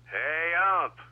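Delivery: loud heckling call across an empty ballpark; heckler yell. Retold or imitated. Fan shouting at the umpire, loud heckle. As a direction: yell it from the stands.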